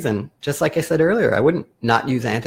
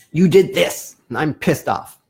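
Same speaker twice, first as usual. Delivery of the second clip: louder, accusing jab at the partner; mock angry blame; 2 semitones higher, 5 dB louder than usual. Shown as a demonstration. Therapist demoing a blaming statement, mock angry. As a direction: sound fed up and blaming.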